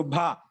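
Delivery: భ pushed out with a puff of breath; pressed aspirated భ. Shown as a demonstration. Teacher showing how children learn భ, pressed and aspirated. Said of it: "దీన్ని ఒత్తి పలుకుడు అని చెప్తాం".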